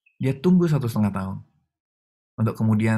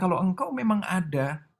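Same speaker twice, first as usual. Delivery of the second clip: defiant challenge; 5 semitones higher than usual. Retold or imitated. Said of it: "saya sampai tantangin Tuhan".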